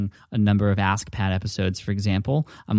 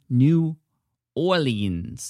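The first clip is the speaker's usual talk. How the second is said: put-on drawn-out, higher-pitched botched accent on New Orleans; bad attempted accent; 4 semitones higher, much slower than usual. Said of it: "That's the worst accent I've ever done".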